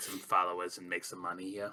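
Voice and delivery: said under the breath. Speaking aside to another character in the game: said under breath. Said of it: "says under breath".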